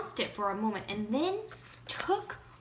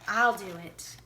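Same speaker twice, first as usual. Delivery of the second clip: confident; 2 semitones lower, 4 dB louder than usual. A narrator's reading. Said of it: "Feeling more confident than ever".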